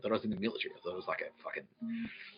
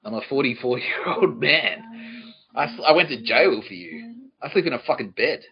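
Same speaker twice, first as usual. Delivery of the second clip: slow, emphatic indignation; aggrieved and emphatic, slightly raised voice; indignant protest; 2 semitones higher, 4 dB louder than usual. Retold or imitated. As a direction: lay down the law, word by word. Indignant protest over sleeping arrangements.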